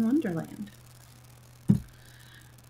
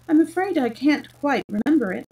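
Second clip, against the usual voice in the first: polite apology, pitched up; 6 semitones higher, 5 dB louder than usual. A narrator's reading. Alice telling Humpty Dumpty she forgot, very politely. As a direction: admit it politely in a higher voice. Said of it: "Alice said very politely".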